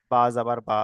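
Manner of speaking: "বা" on its own after its spelling; separate second reading. Shown as a demonstration. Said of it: "নিজে নিজে আরেকবার উচ্চারণ হবে". ("বা" আলাদা করে নিচু স্বরে পড়া)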